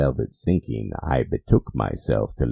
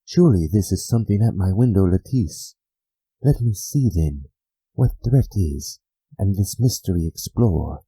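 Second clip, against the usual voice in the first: higher and louder, fast at the start, climbing to a near cry; agitated, rising; 6 semitones higher, 4 dB louder than usual. Acted. The narrator at the window, nervous and climbing higher. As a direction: talk yourself out of fear, voice climbing. Speaker voicing his agitated self.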